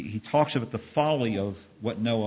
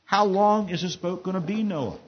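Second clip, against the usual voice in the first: higher, disbelieving outburst; exclaiming; 7 semitones higher than usual. A narrator's reading. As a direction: exclaim it at the madness. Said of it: "he exclaims".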